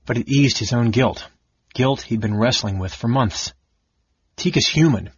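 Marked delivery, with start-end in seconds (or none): 4.4-5.1 surly. Acted. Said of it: "he continued surlily".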